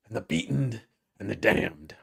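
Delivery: mock recitation winding down; theatrical closing line, easing back; Chris. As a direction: let the grand declamation tail off. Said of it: "then sometimes he says".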